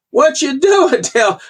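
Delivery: friend calling from the truck window, high-pitched mock yell; retold yell. Old friend leans out the truck window, mild mock yell. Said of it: "and he leans out the window and yells".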